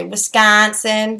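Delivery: slowed Wisconsin accent with over-accentuated vowels. Shown as a demonstration. Showing how locals say it, Wisconsin accent. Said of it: "accentuate our vowels".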